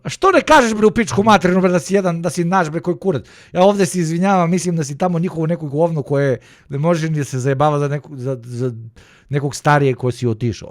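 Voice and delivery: loud, high-pitched ranting in Serbian. Real, not acted. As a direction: yell at the chatter in Serbian, pitch way up.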